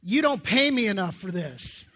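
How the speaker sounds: chuckling tired mom; laughing mock complaint. Tired new mom at three in the morning, laughing grumble. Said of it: "you're like".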